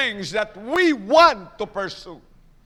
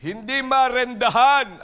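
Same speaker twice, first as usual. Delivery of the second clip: loud proclaiming; 3 semitones higher, 6 dB louder than usual. Acted. Preacher proclaims.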